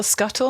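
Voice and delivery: "scuttle" with hard sk and an L ending; misread surname with L. Retold or imitated. Guest quotes worst misreadings of surname, "scuttle" with added L. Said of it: "people put an L in it".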